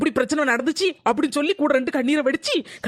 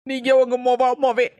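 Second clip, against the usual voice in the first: tearful threat to leave. Acted. Daughter-in-law threatening to go to her mother, tearful. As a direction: choke out the threat.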